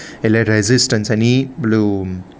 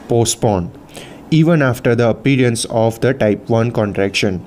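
slow, measured reading of notes; slow textbook read-out; much slower than usual. Real, not acted. Teacher reading physiology notes to students, slow and measured. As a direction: read it out slowly, phrase by phrase. Reads lesson text aloud slowly.

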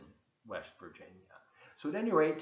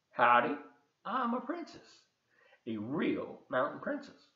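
proclaiming princess; 2 semitones higher than usual. Acted. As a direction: proclaim it with a leap up on "I'm". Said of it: "she proclaimed".

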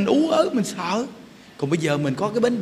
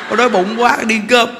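louder, livelier mock eagerness; eager hungry quote; 2 semitones higher, 6 dB louder than usual. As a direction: imitate someone keen to go and eat. Acting out a keen, hungry reply.

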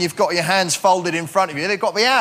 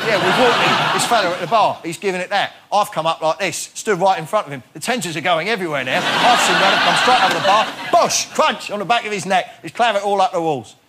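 Cockney geezer. Retold or imitated. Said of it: "They'll say".

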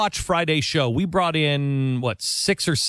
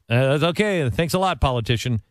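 mock sarcastic thanks. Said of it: "kinda like this".

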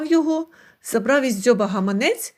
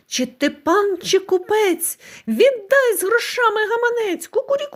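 high rooster cry topped with a shrill crow; 9 semitones higher than usual. A narrator's reading. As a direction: crow it at the window, demanding. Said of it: "дзьобати в шибку та кричати".

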